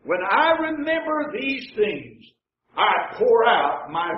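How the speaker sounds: slow, lingering read of the verse; slow scripture reading. Shown as a demonstration. Preacher reads the psalm slowly to the congregation. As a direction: draw each word out. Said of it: "Notice what he says".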